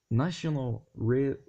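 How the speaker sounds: slow French-accented attempt, cut off; halting English with a French accent; stumbling French-accented English. Real, not acted. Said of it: "l'anglais et moi, ça fait deux".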